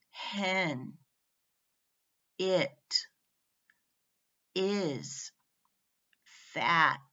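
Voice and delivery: one word at a time, each set apart by a pause; read-along word list. Shown as a demonstration. Teacher reading short-vowel words for learners to join in, measured read-along. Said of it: "you can read them with me".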